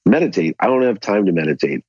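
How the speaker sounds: mildly scoffing retold retort; lightly incredulous, re-enacting your own impatience; dismissive eye-roll. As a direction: brush it off with a mock eye-roll. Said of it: "I really rolled my eyes and I go".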